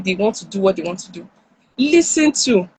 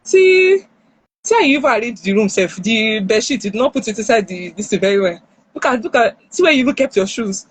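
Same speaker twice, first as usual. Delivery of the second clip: scolding criticism. Retold or imitated. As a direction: pick at every flaw with annoyance. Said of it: "don't come to the room and be saying".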